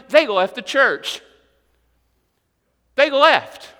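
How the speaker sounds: loud, rising pulpit fervor; preacher thundering at the congregation; full-force preaching. Real, not acted. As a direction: build the warning to the crowd.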